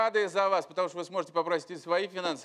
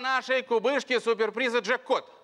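booming prize announcer; 6 semitones higher than usual. Real, not acted. Building up to jackpot reveal.

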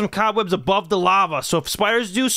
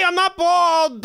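indignant denial; 8 semitones higher, much slower than usual. Real, not acted. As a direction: drag it out in mock outrage. Denies being bald to kids.

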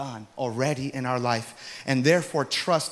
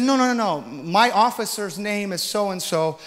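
loud, high protest; retold heated insistence; arguing insistently; 5 semitones higher, 5 dB louder than usual. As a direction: insist loudly you're still on probation. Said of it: "I'm arguing with this lady".

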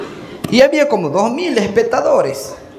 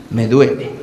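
whiny ache; 11 semitones lower than usual. Acted. Patient repeats it hurts.

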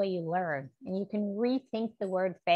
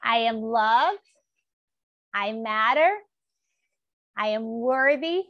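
with gusto; 5 dB louder than usual. Shown as a demonstration. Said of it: "Say it with gusto".

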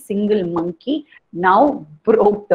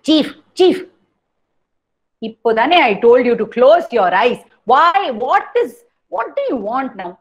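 exasperated chief; 3 semitones higher, 4 dB louder than usual. Acted. Chief scolds monkey.

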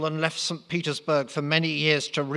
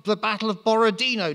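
put-on high squeaky French-accented voice; defeated Napoleon squeaking in Franglais; 9 semitones higher, 4 dB louder than usual. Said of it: "Napoleon squeaked".

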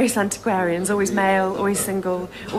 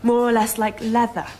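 reading a ghost story. Acted.

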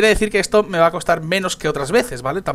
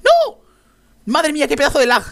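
high, loud shout of dismay; grito de desesperación; 9 semitones higher, 4 dB louder than usual. Real, not acted. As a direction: yell it in real panic. Lag le hace caer. (grito agudo y fuerte de pánico)

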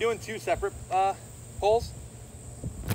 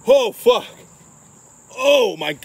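sudden loud swearing at the burn; shocked outburst; 5 semitones higher, 5 dB louder, slower than usual. Real, not acted. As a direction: blurt it out as the spice hits. Bites hot pepper, reacts.

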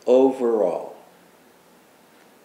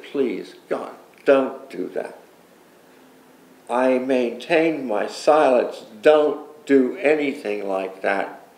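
pleading; slower than usual. Retold or imitated. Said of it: "again, I, I pleaded".

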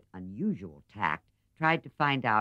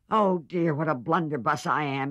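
loud, dismayed cry at her own clumsiness; dismayed exclamation; 4 semitones higher, 4 dB louder than usual. Acted. Jo dismayed by the spilt coffee, exclaiming. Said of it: "exclaimed Joe".

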